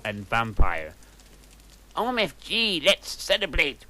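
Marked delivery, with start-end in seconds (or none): 1.9-3.8 a touch of breathless excitement, higher; lightly gushing teen; mild excited gasp. Acted. Willow gushing to her friends, mildly excited. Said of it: "gasped Willow".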